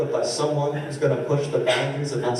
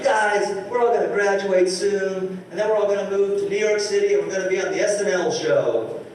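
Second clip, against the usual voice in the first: higher, dreamy earnest student voice; mocking earnest improvisers; 7 semitones higher than usual. Improv troupe promising each other fame, mock earnest. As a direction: parody the hopeful improv kids. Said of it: "they're just like".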